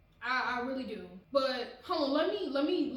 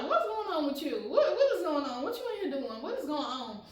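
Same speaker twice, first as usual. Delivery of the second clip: suspicious mom; 3 semitones higher, 3 dB louder than usual. Retold or imitated. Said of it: "she eventually was like".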